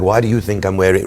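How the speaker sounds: low-pitched, lightly imitated English accent. English rabbi answering a question about slippers, mock English accent. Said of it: "he goes in his beautiful English accent".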